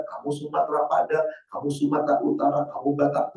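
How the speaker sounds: ordinary talk, nothing marked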